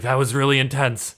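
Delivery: a touch of post-battle exhilaration; breathless crewman. Acted. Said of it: "He's breathing heavily, and he's like".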